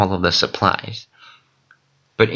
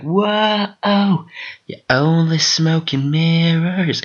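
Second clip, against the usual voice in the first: wrestler voice; 8 semitones higher, much slower than usual. Retold or imitated. Cody Rhodes voiced in dream.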